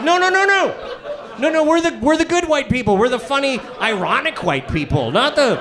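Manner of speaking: high-pitched frantic backpedaling; panicked protest. Acted. Parent to the school principal watching them, panicked protest. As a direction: plead your innocence in a rising panic.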